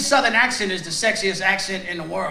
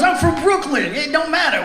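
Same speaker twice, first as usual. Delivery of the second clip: mock Brooklyn guy; 4 semitones higher than usual. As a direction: play the proud guy from Brooklyn. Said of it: "He goes".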